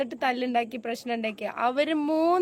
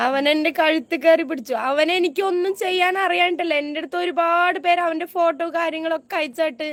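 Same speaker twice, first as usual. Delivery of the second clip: loud, pitched-up protest; angry outburst; 2 semitones higher, 4 dB louder than usual. Real, not acted. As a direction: let the anger about him break through. Angry complaint about the attacker.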